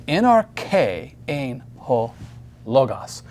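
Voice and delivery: slow, deliberate reading stressing the end of "arche"; "arche" stressed on -che, "logos" on lo-; word by word, landing on the accents in "arche" and "logos"; accented syllables. Shown as a demonstration. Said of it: "Note the accenting".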